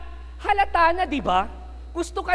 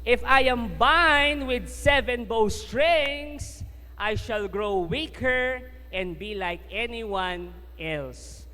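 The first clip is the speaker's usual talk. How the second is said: Samson answering; 2 semitones lower, much slower than usual. Acted. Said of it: "Ito yung unang sagot ni Samson".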